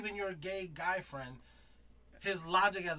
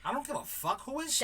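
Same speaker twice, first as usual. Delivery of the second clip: retold anger; 8 semitones higher than usual. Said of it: "that's when I started getting mad".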